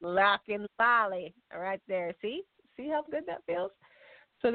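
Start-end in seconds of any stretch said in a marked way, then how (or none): 0.0-1.3 playful country twang; country accent. Shown as a demonstration. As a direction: show off a hammed-up country accent. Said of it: "in your best country accent".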